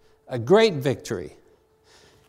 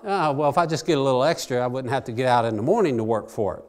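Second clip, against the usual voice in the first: greedy people's thought; 4 semitones lower, faster than usual. Retold or imitated. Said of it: "they thought".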